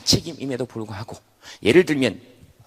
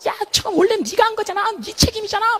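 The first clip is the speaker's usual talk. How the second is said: much higher, squeaky protesting voice; indignant organs; 5 dB louder than usual. Acted. Body organs accuse the head, high indignant. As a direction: protest like tiny outraged organs.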